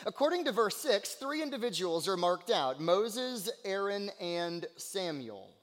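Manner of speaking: energetic sermon delivery; forceful preaching. Real, not acted. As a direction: preach it out with conviction.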